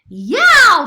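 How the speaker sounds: loud, high whoop of triumph; a sudden delighted cry; excited shout. A narrator's reading. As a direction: yell it with glee. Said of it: "shouted Sophia".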